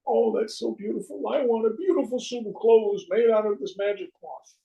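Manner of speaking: high, eager lightly voiced king; mock gushing king. King to the charlatans, hammed-up delight. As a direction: play the vain king, thrilled. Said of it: "same routine with the king".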